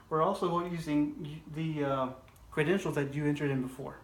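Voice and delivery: speaking with a dry mouth; dry-mouthed, sticky words. Real, not acted. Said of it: "I'm getting a little dry mouth here".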